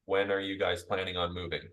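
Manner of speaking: flat, toneless robot-like reading; analytical tone. Shown as a demonstration. Salesperson reading off a script, flat and analytical. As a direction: read it like a dry script. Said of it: "We use that in an analytical tone".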